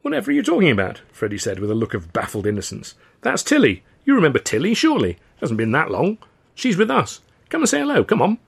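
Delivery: Freddie's high voice. Acted. Freddie coaxing Charlie to greet Tilly, high innocent voice. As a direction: sound baffled and innocent, up high.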